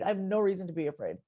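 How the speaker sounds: ordinary delivery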